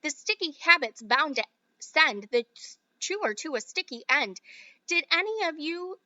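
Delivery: rhythmic verse reading; light sing-song verse; poem recital. Acted. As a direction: lilt the rhyme like a chant. Reads Oompa Loompa song verse.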